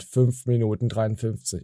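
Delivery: low flat robot voice. Shown as a demonstration. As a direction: read it like a machine. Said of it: "War doch schon roboterhaft".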